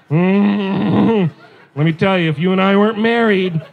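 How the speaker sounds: mock-lustful hum into slow words; hammed-up wife's longing; lusting wife. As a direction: imitate a wife drooling over someone, drawn out. Wife lusting over man on TV.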